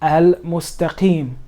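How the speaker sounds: Al-Mustaqim slowly with a clear l; lam pronounced. Shown as a demonstration. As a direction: sound the l in Al-Mustaqim. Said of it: "you will pronounce the lam".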